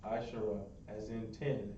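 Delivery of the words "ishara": Ishara with an open final "a"; corrected pronunciation. Shown as a demonstration. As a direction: model Ishara as three syllables, falling at the end. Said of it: "Not Ishar".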